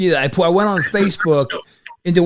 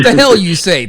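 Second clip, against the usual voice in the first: said again much louder so the guest catches it; louder repeat; 7 dB louder than usual. Real, not acted. Host repeats his mock disbelief louder for the guest who missed it. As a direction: punch it out louder the second time. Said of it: "The what?".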